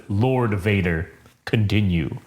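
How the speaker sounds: low, slow, imposing Sith lord; half-speed low, weighty delivery; Darth Vader. Acted. Vader correcting the woman, low and slow. Quoting Vader's curt reply.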